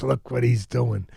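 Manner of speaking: slow, savoured praise; proud admiration. Retold or imitated. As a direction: imitate a proud mentor marvelling. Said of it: "Cus was so proud".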